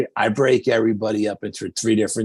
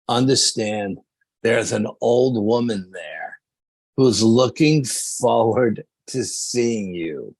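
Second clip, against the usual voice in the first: slow, measured premonition, each phrase set apart; portentous psychic; slower than usual. Retold or imitated. Psychic warns the team about a waiting woman, slow and portentous. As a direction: imitate a psychic, stretching words out with pauses.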